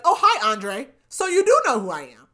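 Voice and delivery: high, loud, sugary neighbor lady greeting; fake-friendly neighbor. Neighbor lady finally greeting Dre, with loud, high mock sweetness. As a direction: gush at him like you always knew him.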